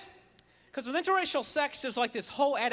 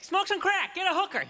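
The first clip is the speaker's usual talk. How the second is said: devil voice; 6 semitones higher than usual. Retold or imitated. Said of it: "It's like".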